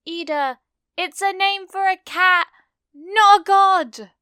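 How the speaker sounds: high, loud exasperated cry; high exasperated girl. Acted. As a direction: shriek it in disbelief. Mina exasperated outburst.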